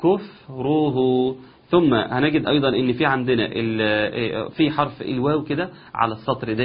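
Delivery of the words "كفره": كفره slowly, lips rounded, relaxed, rounded again; correct dammas. Shown as a demonstration. Teacher modelling the lip movements, slow. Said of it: "نرجع ضم تاني".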